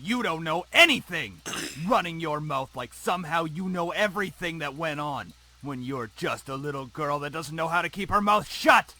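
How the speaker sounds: enraged. Acted. Father berating his daughter after slapping her, enraged. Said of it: "A flash of rage crossed his face".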